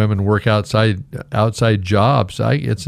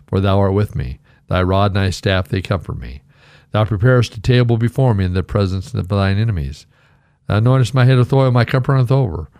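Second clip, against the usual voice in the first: scripture recitation. Acted. Pastor reciting the psalm to his congregation.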